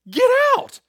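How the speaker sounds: high, loud, sudden rebuke; a mock exorcist's command; commanding shout. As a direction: cast the demon out with a yell. Paul casting out demon.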